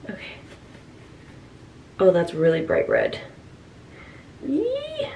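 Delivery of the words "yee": high squeamish "eee"; squeamish squeal. Real, not acted. Prankster handling red dye, squeamish squeal. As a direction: squeal softly at something gross.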